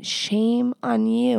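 slow, drawn-out shame on you, finger-wagging tone; tsk-tsk the listener slowly; playful mock reprimand; mock scolding. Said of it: "rubbing it against my other left finger like sticks and saying".

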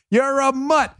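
mock heckle, high and drawn out; imitated New York heckler. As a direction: mimic a New Yorker laying into someone. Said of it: "That's a total New York".

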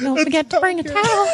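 high, laughing joke. Real, not acted. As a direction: toss the line off through a laugh. Joking, laughing.

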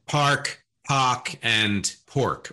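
park, pock, pork as three distinct vowels; regional variants. Retold or imitated. Host recalling a linguist's example words, carefully contrasted. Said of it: "here are three different words".

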